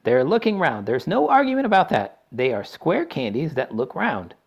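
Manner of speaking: a showman proving his point; eccentric chocolatier. A narrator's reading. Wonka explains the candies to his guests, gleeful.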